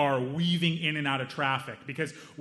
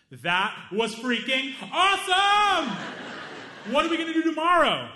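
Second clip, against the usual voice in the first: thrilled; 13 semitones higher, 5 dB louder than usual. Retold or imitated. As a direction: gush like an overjoyed kid. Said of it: "Hamza says".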